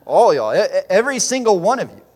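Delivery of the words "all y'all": all y'all in a loud, exaggerated Southern drawl. Shown as a demonstration. Preacher to congregation, hamming up a Southern all y'all. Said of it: "as we say".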